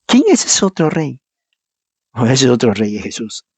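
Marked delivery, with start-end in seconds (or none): 0.1-1.2 raised repeat. Real, not acted. Repeated rhetorical question.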